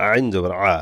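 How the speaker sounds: "আইন" sounded from the throat; throaty ain. Shown as a demonstration. Teacher showing students the letter, "আইন" from the throat. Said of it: "আইন গলা থেকে".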